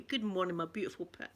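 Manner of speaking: soft, fond good morning; quiet loving hello to lovely Pip; tender greeting. Real, not acted. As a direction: coo it to a beloved pet. Greeting her pet tenderly.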